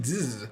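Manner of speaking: drawn-out buzzing zzz; imitated buzz. Explaining what medication did to him, imitated slow buzz. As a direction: trail into a slow zzz noise.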